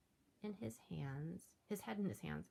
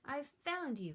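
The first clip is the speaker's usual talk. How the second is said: high, louder joyful shout; happy cry; 8 semitones higher, 5 dB louder than usual. Acted. George finally finding the Yeti, high and joyful. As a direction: beam with triumph. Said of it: "with a big happy grin".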